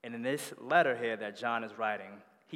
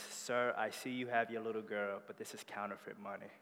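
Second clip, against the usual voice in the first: softer, hushed cashier; quiet bad news; 6 dB quieter than usual. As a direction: break it gently and quickly.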